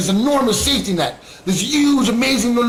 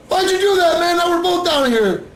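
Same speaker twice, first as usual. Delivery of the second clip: high, whiny complaint; hammed-up high incredulous whine; mock exasperation; 12 semitones higher than usual. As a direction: protest that now both are trapped. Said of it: "the junkie's like".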